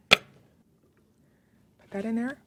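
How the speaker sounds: playful slow singsong repeat; drawn-out singsong. Shown as a demonstration.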